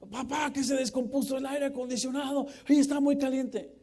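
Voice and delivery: put-on high, loud panicky kid voice; panicky child. Preacher acting a child begging dad, high loud panic. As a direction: whine like a scared little boy.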